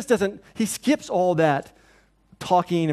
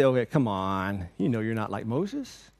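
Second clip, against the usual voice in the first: scolding retort; 8 semitones lower, 3 dB quieter than usual. Retold or imitated. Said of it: "He doesn't come back and say".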